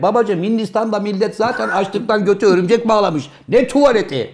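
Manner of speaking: rising mock-outraged protest; indignant retold rant. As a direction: imitate an outraged objection, pitch climbing. Retold indignant objection, acted out.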